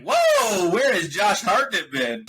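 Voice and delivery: high, drawn-out mock "whoa"; big amazed reaction, pitch leaping up; retold surprise. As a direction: act out a delighted double take. Acting out surprised reaction to actor.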